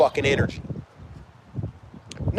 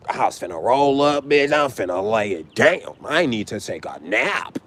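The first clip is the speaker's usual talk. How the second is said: exhausted sigh, then slowing down; mock exhausted, sinking lower at the end; worn out; 4 semitones lower than usual. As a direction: drag it out like you're too tired. Acting out coming home exhausted.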